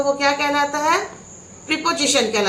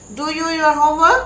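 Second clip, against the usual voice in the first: slow drill; 3 semitones higher, 3 dB louder, much slower than usual. Shown as a demonstration. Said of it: "slow teaching drill".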